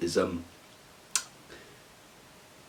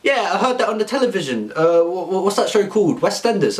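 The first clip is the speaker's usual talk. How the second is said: high mock guard; 6 semitones higher than usual.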